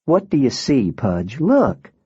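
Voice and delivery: lightly voiced girl, rising to a high Look; Alaska's voice, remembered. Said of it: "I could hear her saying".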